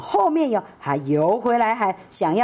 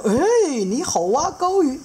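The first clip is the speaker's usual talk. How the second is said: much higher, fast and chatty; eager seahorse dad; 9 semitones higher, 4 dB louder, slower than usual. Acted. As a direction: rattle it off, knowing and playful. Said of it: "海马爸爸就说".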